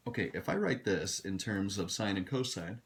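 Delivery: talking through a yawn. Real, not acted. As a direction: stretch the words in a yawn. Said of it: "sorry, I'm yawning".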